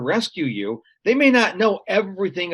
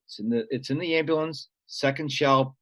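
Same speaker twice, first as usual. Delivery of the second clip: softer, unhurried paramedic calm; imitating a cool-headed paramedic, softer; lightly voiced calm medic giving directions; calm instruction; 2 semitones lower, 5 dB quieter than usual. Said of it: "And he was so calm".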